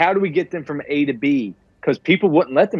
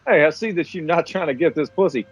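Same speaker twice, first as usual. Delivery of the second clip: rising into a higher, fast sleazy come-on; smarmy pickup; 5 semitones higher, faster than usual. Retold or imitated. The president hitting on the girl, smarmy and higher. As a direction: sleaze it up like Zapp Brannigan, climbing higher. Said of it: "He just rolls up on her like".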